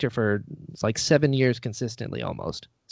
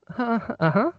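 high, noncommittal "huh, uh-huh"; polite hum with no enthusiasm; higher, doubtful hum; unimpressed murmur; 10 semitones higher than usual. Retold or imitated. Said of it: "I got a lot of, like".

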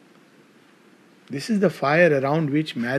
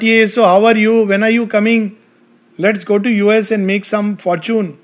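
higher, louder, breezy mock-casual; mocking an ordinary husband's letter, breezy and louder; mock mundane chatter; 5 semitones higher, 6 dB louder than usual. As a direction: parody a shallow letter home.

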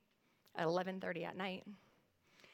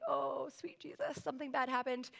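retold dread; 4 semitones higher than usual. Mother seeing daughter in tears, hushed retold alarm.

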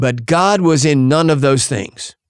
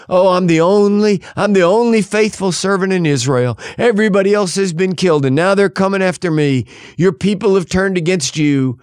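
higher-pitched mock whining; imitated poor-me complaint, pitched up; self-pitying whine; 5 semitones higher than usual. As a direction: whine like a put-upon, self-pitying servant. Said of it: "It's a voice of self-pity and whining".

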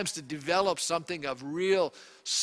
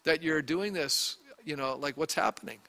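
calm; 3 semitones lower, 4 dB quieter than usual. Retold or imitated. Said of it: "you walk up calmly and you say to them".

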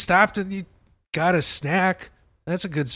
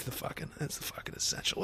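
whispered; 13 dB quieter than usual. Real, not acted. Aside about soundboard.

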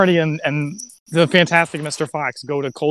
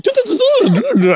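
mock gibberish babble; 6 dB louder than usual. Mimicking unintelligible accent.

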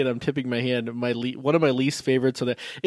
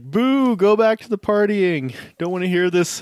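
mock heckling; 4 semitones higher, 3 dB louder than usual. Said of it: "you're like".

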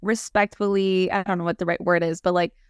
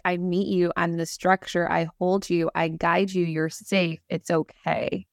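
reassuring presence; 2 semitones lower, slower than usual. Retold or imitated. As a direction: hold them safe with every word. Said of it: "there's, like, this sense of".

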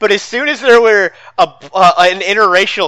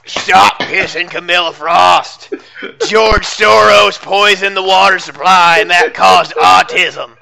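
lightly voiced ranting radio host; a hint of conspiracy radio rant; Alex Jones impression; 4 dB louder than usual. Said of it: "I can't do the Alex Jones".

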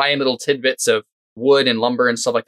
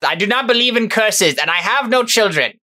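indignant rebuff; 9 semitones higher than usual. Acted. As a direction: brush off the threat firmly. Monk rebuffs curse threat.

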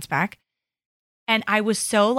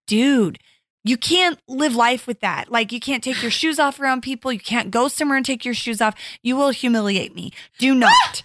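scolding mom. Retold or imitated. Mom scolding kid over smelly shoes.

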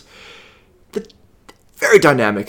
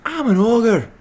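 mock ogre toy voice; 9 semitones higher than usual. Co-host echoes toy's ogre line.

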